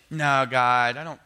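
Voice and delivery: loud protesting cry; exclaimed objection; protesting God. Retold or imitated. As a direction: push back hard at God. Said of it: "you would go".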